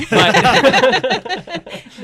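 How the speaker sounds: loud high burst of laughter. Real, not acted. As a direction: crack up at your own joke. Jake has not matured.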